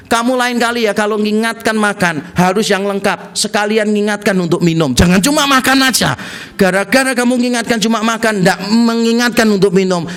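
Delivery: lecturing a partner, mildly cross; mild mock anger. Man scolds girlfriend for incomplete reminders, mildly mock angry. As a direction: play a petty telling-off. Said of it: "bisa marah loh sama pacarnya".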